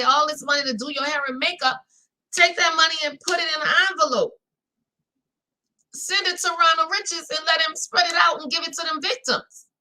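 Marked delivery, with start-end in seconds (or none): 2.6-9.7 indignant shout. Real, not acted. Indignant rant about unpaid victims.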